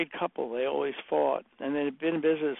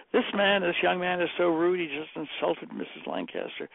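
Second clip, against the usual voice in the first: raised, higher indignant secretary, retold; indignant complaint; 3 semitones higher than usual. Secretary complaining of the rude young man, retold indignation. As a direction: imitate an affronted secretary reporting rudeness.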